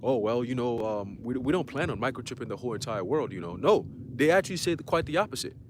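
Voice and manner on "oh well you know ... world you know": mocking quote. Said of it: "any Edomite come out and say".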